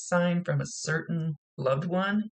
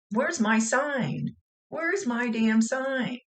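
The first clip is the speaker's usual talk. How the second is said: higher, louder, slow demanding calls; impatient demanding; 9 semitones higher, 3 dB louder, much slower than usual. Retold or imitated. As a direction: plead for the sign, drawn out and insistent. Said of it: "I'd go".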